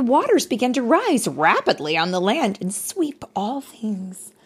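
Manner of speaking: put-on bright, lively read-aloud voice for a child; story narration. A narrator's reading. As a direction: tell it like a bedtime story.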